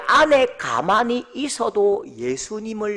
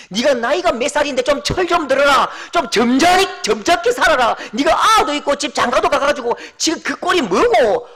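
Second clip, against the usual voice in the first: scolding rebuke; 3 semitones higher, 4 dB louder than usual. Pretend. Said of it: "라고 말하지 않으시고".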